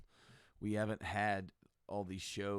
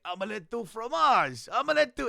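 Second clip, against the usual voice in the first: loud, high-pitched mock exclamation; different inflection; 12 semitones higher, 12 dB louder than usual. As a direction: belt it out way up high. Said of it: "he says it with different inflections".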